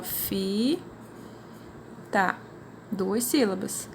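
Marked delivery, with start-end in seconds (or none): 0.0-0.8 FITA split as "fi", pause, "ta"; "fi... ta", each syllable held apart. Shown as a demonstration. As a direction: say "fita" syllable by syllable, quietly, with a gap between. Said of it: "vocês vão fazer assim, ó".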